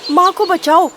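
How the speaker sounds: acted children's cries for rescue; children crying out. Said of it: "बस यही चिल्ला रहे थे".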